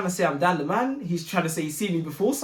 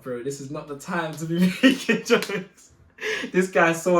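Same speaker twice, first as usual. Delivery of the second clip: half-laughing, slowed-down telling off; 4 dB louder than usual. Retold or imitated. Laughing at his friend's joke, scolding him. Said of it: "I started laughing as well".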